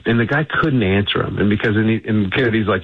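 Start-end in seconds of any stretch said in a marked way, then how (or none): none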